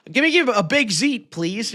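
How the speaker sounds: "zeet" for ziti, end cut off; dropped final vowel. Acted. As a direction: order a "zeet" like an Italian-American. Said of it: "There's an I".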